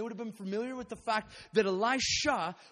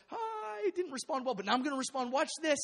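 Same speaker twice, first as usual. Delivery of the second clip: excited resolve; 7 semitones higher than usual. Retold or imitated. Elisha's voiced sudden resolve.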